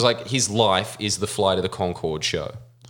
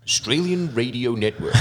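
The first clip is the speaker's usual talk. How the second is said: American accent; 3 semitones higher than usual. Real, not acted. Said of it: "Don't know why I put an American voice on".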